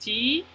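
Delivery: "anti-code" in three beats with long pauses; an... ti... code, counting out "anti-code"; syllable by syllable. Shown as a demonstration. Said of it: "escuchamos tres vocales diferentes".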